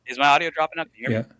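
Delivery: patchy, breaking-up internet audio; tape dropouts. Real, not acted. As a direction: voice cutting out over the call. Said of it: "your audio is dropping out".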